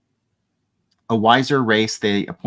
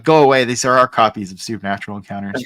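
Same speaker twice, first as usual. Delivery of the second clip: mock Ewok refusal; 4 dB louder, faster than usual. Ewoks voiced refusing Gorax.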